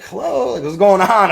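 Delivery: put-on high, puzzled little boy voice; little kid voice. Young grandson asking grandpa what's happening, high childish voice. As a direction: sound like a small confused child. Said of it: "I'm, like, little".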